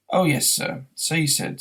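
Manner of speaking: lightly voiced barman; humouring barman. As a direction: patiently humour the odd customer.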